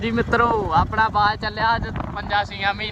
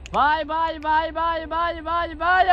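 much higher, sing-song calls to a hawk; very high bird call; 10 semitones higher than usual. Real, not acted. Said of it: "ਬਾਏ ਮਾਰ".

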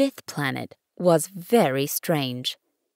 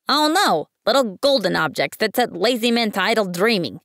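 pompous businessman; 2 semitones higher, 4 dB louder than usual. Acted. Businessman explains to the prince.

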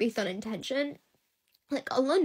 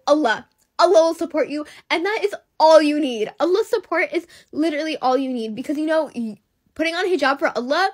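louder, passionate preaching tone; fervent encouragement; 3 semitones higher, 6 dB louder than usual. Real, not acted. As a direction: urge them on with fervour.

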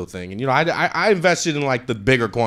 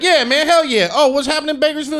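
eager excitement. Retold or imitated. His eager reply to the scammer.

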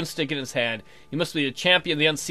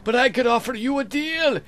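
much higher, louder, very slow otherworldly call; slow echoing fey voice; 11 semitones higher, 6 dB louder than usual. Acted. Unseelie hailing the mortal king, slow echoing shout. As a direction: drag each word out like an echo from another world.

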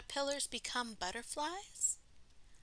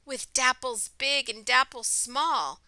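louder, lilting storybook reading; story read-aloud; 10 dB louder, slower than usual. A narrator's reading. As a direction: read it out to children, slowing for the refrain. Reading picture book aloud to children.

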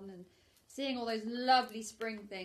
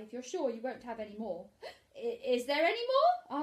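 whisper; 4 semitones higher, 6 dB louder than usual. Acted. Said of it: "asked Pooh quickly".

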